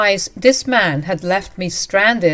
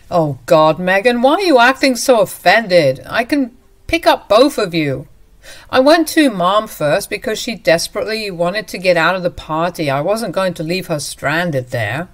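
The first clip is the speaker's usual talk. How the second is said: louder, defensive and impatient; exasperated husband; 4 dB louder than usual. Acted. Husband defending picking up his mother, louder and impatient. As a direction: brush off her anger.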